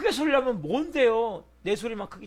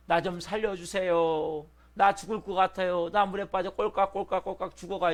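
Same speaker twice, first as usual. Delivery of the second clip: calm mock plea; 2 semitones lower than usual. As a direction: beg for rescue as if nothing were wrong. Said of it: "이래요?".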